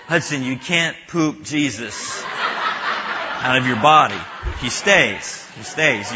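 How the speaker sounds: slowly, holding back laughter; suppressed laugh. Retold or imitated. Mom reassures her son while stifling a laugh, slow. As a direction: comfort him while trying not to laugh. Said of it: "suppress a laugh".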